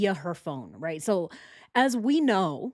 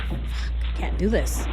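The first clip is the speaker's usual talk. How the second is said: slow exasperated whisper under the breath; Tammy whispering she can't take it anymore; 3 dB louder than usual. Retold or imitated. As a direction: hiss it to yourself, barely holding it in. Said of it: "She's like".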